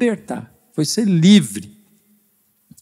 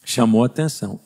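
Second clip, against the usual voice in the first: usual speaking voice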